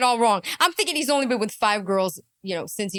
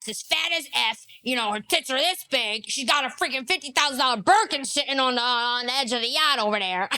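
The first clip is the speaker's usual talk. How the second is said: mocking imitation. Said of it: "somebody talking about you like this".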